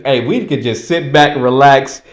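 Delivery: low, soft, lazy insider voice; hint of smug elites sitting back; smug powers that be. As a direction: murmur it like a confident elite. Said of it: "They're just".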